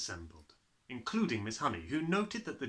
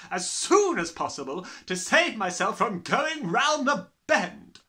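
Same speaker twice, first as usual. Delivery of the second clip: high, very loud, ranting; tyrannical headmistress; 11 semitones higher, 11 dB louder than usual. A narrator's reading. Headmistress threatening to expel her class, ranting. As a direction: rant at the pupils at full volume.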